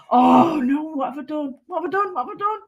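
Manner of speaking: rising, half-joking wail of alarm; mock dismay. Crafter fussing over a mistake, playful mock dismay. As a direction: ham up the panic over a small slip.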